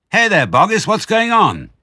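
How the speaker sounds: high, loud holler; calling out. Acted. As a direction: shout down from the crater's edge. Onlookers call down into crater.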